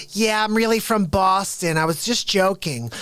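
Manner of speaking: half-hearted impression of the wife owning up; mild mocking wife voice. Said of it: "And she's like".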